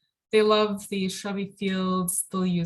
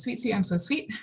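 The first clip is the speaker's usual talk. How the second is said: higher-pitched birdsong phrase lifting on the final "sweet"; birdsong mnemonic; 4 semitones higher than usual. Shown as a demonstration. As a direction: chant "sweet" like a bird call, ending upward. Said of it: "their song is described as".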